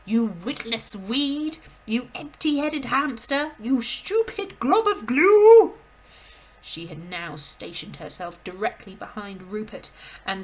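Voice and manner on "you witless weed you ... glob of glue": slow insults rising to a huge, high roar; building bellow. Acted. Headmistress berates Rupert, building to a slow roaring bellow. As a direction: pile on the insults until roaring. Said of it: "the Trunchbull bellowed".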